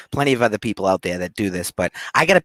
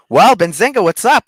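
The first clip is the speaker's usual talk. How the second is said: big, loud, high hello to the audience; excited greeting; 11 semitones higher, 8 dB louder than usual. Real, not acted. Host greeting the Benzinga chat with a loud, high, excited hello. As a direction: burst in with a high-energy welcome. Opening his own show segment.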